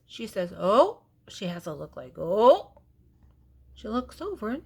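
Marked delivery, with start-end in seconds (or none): 0.6-1.0 much louder startled "Oh"; startled gasp. Acted. Wife discovers the gorilla. 2.2-2.7 much louder startled "Oh"; startled gasp. Acted. Wife discovers the gorilla.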